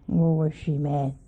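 usual speaking voice

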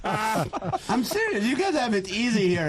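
mock serious. Comic insistence, high slow.

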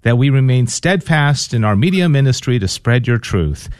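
earnest, measured prayer voice; on-air prayer closing with the sign of the cross; spoken prayer. Acted. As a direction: pray aloud over the listeners, steady and reverent. Leads a radio prayer.

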